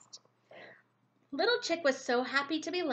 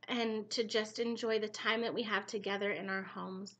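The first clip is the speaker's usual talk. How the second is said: soft, flowing spoken prayer; 2 semitones lower, 3 dB quieter, faster than usual. Real, not acted. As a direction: pray sincerely on behalf of mothers. Leads a closing prayer.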